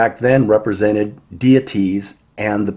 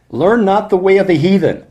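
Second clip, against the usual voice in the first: high, loud proclamation of "Learn not the way of the heathen"; proclaimed scripture; 7 semitones higher, 3 dB louder than usual. Shown as a demonstration. Preacher reading the verse to his flock, raised and loud. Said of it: "Let me really emphasize what he said here".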